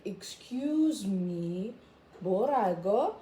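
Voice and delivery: meme quote. Retold or imitated. Quoting a meme line.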